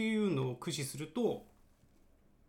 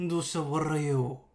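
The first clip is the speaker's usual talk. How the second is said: Cell voice; 6 dB louder than usual. Shown as a demonstration. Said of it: "みたいなね".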